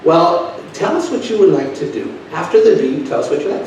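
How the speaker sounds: high mock automated voice; mock computer lady. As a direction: play the snippy phone robot.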